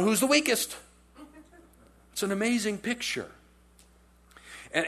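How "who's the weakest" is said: worried question. Retold or imitated. Disciples asking who betrays.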